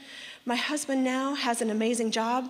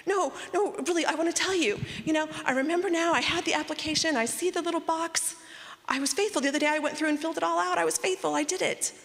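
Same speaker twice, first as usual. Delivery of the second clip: high, rushed, eager protest to the judge; eager pleading; 5 semitones higher than usual. Retold or imitated. To the tribunal judge, eagerly pleading her honesty. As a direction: insist breathlessly you did it right.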